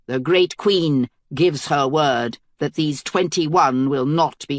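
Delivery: a herald hailing the enemy queen from the walls; thick bass herald. Acted. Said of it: "his voice was a thick bass".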